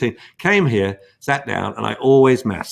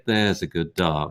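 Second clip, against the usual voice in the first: soft praise for a dog; 5 semitones lower than usual. Shown as a demonstration. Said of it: "go over and say".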